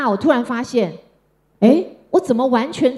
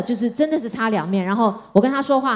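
normal talking voice

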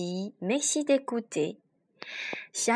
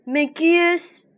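high, loud astonished question; surprised; 7 semitones higher, 6 dB louder than usual. A narrator's reading. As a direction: ask it in sudden wonder. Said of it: "s'étonna Félicia".

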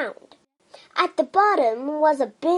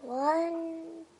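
soft hushed countdown, barely voiced; whispered count; 3 semitones higher, 8 dB quieter, much slower than usual. A narrator's reading. Children wishing with eyes shut, whispering. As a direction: hush the count like a secret wish. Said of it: "shut their eyes and whispered".

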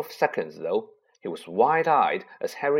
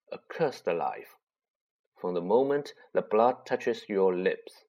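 grave centaur; 2 semitones lower than usual. Acted. Centaur Firenze speaking gravely.

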